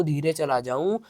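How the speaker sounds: drops to a soft, low voice. Shown as a demonstration. Teacher showing students how a soft voice sounds. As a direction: let the words go quiet to show the wave falling.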